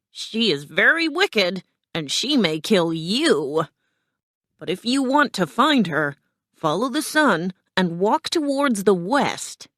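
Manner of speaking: lightly voiced, emphatic guardian; warn, then direct with lifted pitch; warning gate guardian. Guardian sends the friends west, lightly voiced emphatic warning.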